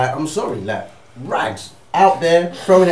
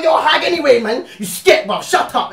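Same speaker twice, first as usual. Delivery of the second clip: raised-pitch, indignant retort; hammed-up sore-loser outburst; mock angry insults; 5 semitones higher than usual. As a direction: imitate a rejected man lashing out. Rejected man turns to insults.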